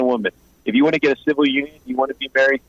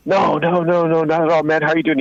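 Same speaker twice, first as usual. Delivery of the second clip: imitating a hasty friendly denial, higher pitch; retold eager placating; 4 semitones higher than usual. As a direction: play him backing off into a friendly greeting, voice raised in pitch. Retold man placating, greets with hug.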